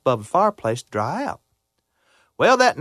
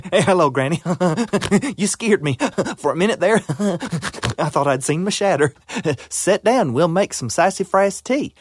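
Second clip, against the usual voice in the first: friendly groundhog talking through little laughs; chuckling groundhog; 3 semitones higher than usual. Acted. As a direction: greet her with a nervous chuckle.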